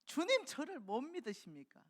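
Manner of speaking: high, loud indignant protest; preacher playing a fiery Peter, pitched high and loud. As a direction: Peter flaring up, hurt that his master doubts him. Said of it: "베드로의 성격이 난리 났을 거예요".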